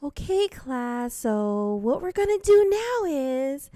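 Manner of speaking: high, slow sing-song princess voice; sweet storybook princess teacher; cartoon princess. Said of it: "our teacher sounds like a princess".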